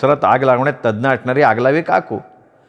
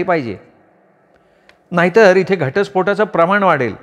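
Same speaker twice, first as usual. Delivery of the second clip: higher scolding aunt voice; gossiping aunt; 4 semitones higher than usual. Acted. Aunt demanding the affair be exposed, higher scolding voice. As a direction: stir up trouble like a nosy aunt.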